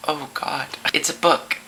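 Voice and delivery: mock nervous kid, softly owning up; caught-out kid. Kid caught by mom with the book, nervous.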